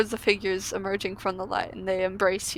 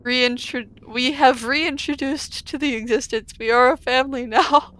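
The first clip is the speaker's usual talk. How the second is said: put-on solemn reborn children; 3 semitones higher than usual. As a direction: announce it like an awed choir.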